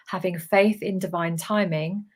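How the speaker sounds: ordinary delivery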